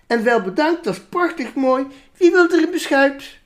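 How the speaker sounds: prim ladies. Acted. The ladies Groen ending the evening with rusks, lightly prim. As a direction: chirp it out politely.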